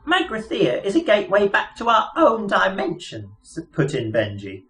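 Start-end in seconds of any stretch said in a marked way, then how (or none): 0.1-3.3 high, chirpy little mouse voice; piping mouse voice. Acted. Mouse explaining their plans to Arthur, piping high voice. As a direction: squeak it out like a pompous lab mouse.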